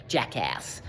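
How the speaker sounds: "Jackass" in an American accent, hard "ch" start and a flat American "a". Shown as a demonstration. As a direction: drawl "Jackass" like an American trailer voice. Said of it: "Sounds so much better in an American accent".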